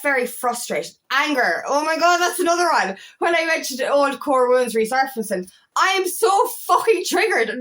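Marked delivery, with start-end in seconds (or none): 1.7-7.6 exasperated outburst. Real, not acted. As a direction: vent it, half laughing at yourself. Venting about her anger.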